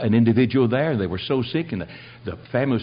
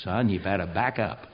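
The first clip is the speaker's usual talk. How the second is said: put-on old grandpa; 5 semitones lower, 5 dB quieter than usual. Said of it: "here's an old grandpa, about ninety years old".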